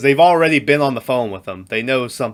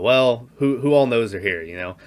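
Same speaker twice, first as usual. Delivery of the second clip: Patrick Stewart voice. Retold or imitated. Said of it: "in this Patrick Stewart voice".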